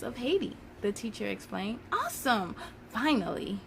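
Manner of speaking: put-on reading a children's book aloud, lively; story narration. Storyteller reading a history picture book to children, lively. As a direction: read it like storytime for kids.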